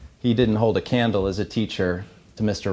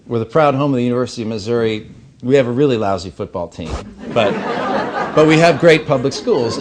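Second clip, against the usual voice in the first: joking version; 5 dB louder than usual. Retold or imitated. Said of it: "or sometimes it was".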